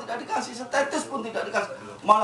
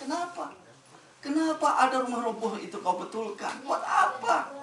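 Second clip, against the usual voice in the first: higher, a touch of scolding; reproachful Musa; 5 semitones higher than usual. Acted. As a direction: question him with mild reproach. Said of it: "dia langsung menegur Nabi Khidir". (Nabi Musa menegur, agak tinggi dan heran)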